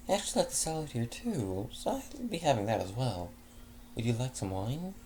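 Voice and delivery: light refined hostess offering wine; kindly unicorn mare at dinner; Fleur's voice. Acted. Fleur orders salad too.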